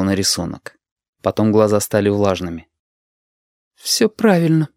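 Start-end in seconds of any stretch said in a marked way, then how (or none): 3.7-4.7 trembling voice. Acted. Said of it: "дрожащим голосом".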